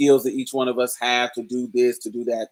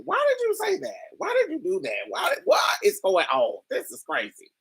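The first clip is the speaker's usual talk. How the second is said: much higher mock disbelief, fading to an unvoiced whisper; shocked. Storyteller reacting to the classmate's remark, mock shocked. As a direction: act baffled, then breathe out the last words. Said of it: "it was like".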